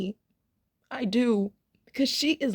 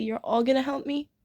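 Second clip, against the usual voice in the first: higher-pitched, lightly acted sweet question; 4 semitones higher than usual. Sandy asking the guppies for help, imitated sweetly. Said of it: "she says so sweetly".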